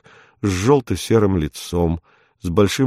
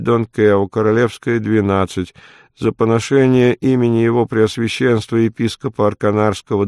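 monotone reading. A narrator's reading. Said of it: "монотонно прочёл".

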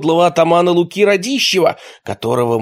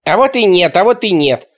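loud, higher, gloating; triumphant yell; 6 semitones higher, 5 dB louder than usual. A narrator's reading. The kid Nichevok crowing at the grown-ups. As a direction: crow it out in triumph. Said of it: "торжественно заорал оголец Ничевок".

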